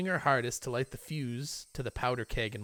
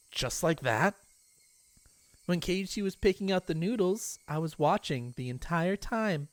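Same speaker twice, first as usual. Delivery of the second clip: put-on higher, bright girlish chatter; Rena chatting cheerfully; 5 semitones higher than usual. Rena recalling the store to Keiichi, girlishly. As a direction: innocent but unsettling friendliness.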